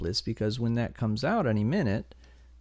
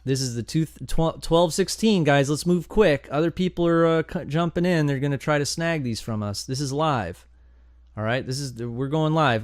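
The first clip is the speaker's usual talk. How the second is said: excited rush; 4 semitones higher, 4 dB louder than usual. Real, not acted. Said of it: "I just got excited right there".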